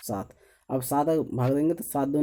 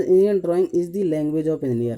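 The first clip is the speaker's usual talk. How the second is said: very slow, louder, word by word; slow dictation; 2 semitones higher, 5 dB louder, much slower than usual. Shown as a demonstration. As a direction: read it out slowly for students to copy. Teacher dictating the sentence to write.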